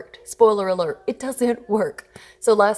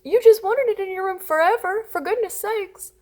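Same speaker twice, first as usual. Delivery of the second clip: put-on high, emphatic sympathy, echoing the child; validating parent; 12 semitones higher, 4 dB louder than usual. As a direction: take the toddler's side in a high, exaggerated voice. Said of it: "I literally repeated what he said".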